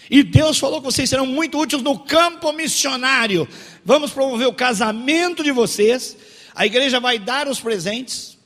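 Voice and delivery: loud, high grand proclamation; mock prophet. False prophet announcing a marriage to a couple, loud proclamation. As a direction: declaim it like a pompous church prophet.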